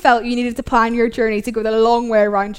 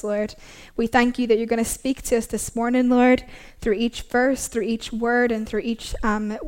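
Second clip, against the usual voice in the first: prayer. Real, not acted. Opening prayer.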